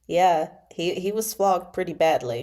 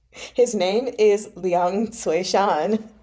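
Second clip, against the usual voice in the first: steady voice; slower than usual. Acted. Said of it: "Xiao Chuye's voice was steady".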